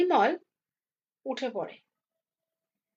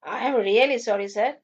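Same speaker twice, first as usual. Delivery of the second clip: slow apology after a short laugh; 2 semitones lower, slower than usual. Acted. Doctor caught off guard by his own name, laughing. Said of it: "পর মুহূর্তে হেসে ওঠে".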